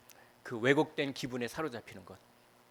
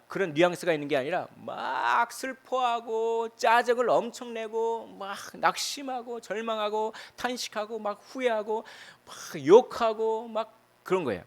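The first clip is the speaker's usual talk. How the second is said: higher and slow, pouring out the lament; fervent preaching; 9 semitones higher, slower than usual. Acted. Pastor describing despair to the congregation, fervent higher preaching. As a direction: preach it with rising passion.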